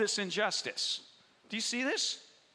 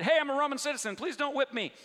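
mock shout; 5 semitones higher, faster than usual. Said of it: "he shouts out at the last minute".

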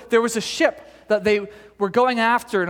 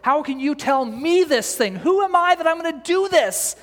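railing at God. Retold or imitated. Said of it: "railing at God at his lack".

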